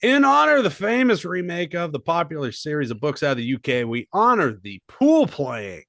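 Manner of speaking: mock-grand introduction; announcer read. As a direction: proclaim it like a ring announcer, punching phrase openings. Reads the segment introduction.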